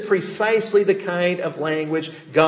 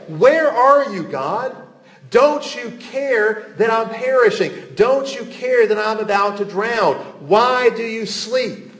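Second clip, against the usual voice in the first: raised, pleading lament to God; anguished plea; 5 semitones higher than usual. Acted. Psalmist in calamity calling to God, raised anguished lament. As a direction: cry out as one drowning.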